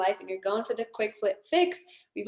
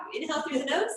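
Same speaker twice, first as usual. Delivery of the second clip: breathing instructor cue; 4 semitones higher than usual. Shown as a demonstration. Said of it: "So it looks like this".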